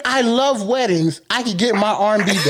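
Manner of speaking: mocking imitation. Friend repeats his line to mock it, laughing. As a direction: parrot it back, teasing. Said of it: "he said".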